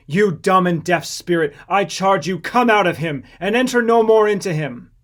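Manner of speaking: loud, commanding exorcism; thundering command to the devil; stern rebuke. A narrator's reading. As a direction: order the spirit out with force. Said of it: "he rebuked the foul, unclean devil".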